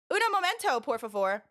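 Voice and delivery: imitating a thick American accent; American-accented Spanish. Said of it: "in the most American accent".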